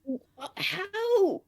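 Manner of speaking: mock outrage, laughing; laughing disbelief. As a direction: laugh through the baffled question. Incredulous retelling, laughing.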